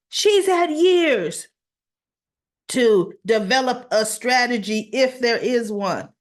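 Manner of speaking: high, slow, dismissive judge; dismissive retort. Retold or imitated. Judge refusing the recess, slow and dismissive. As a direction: drag out "years" to brush her off. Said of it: "so he goes".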